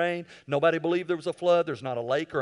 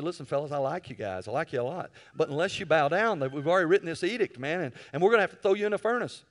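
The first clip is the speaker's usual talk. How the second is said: king's mock-friendly threat; faster than usual. Nebuchadnezzar threatens the three.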